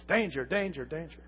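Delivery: lightly voiced robot warning; a hint of a warning robot. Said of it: "That sounds like the robot on Lost in Space".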